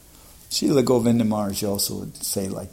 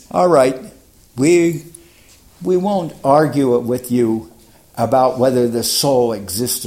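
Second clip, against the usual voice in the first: eager challenge; 6 dB louder than usual. Retold or imitated. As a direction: push the clever question hard and loud. Young self challenging Prabhupada.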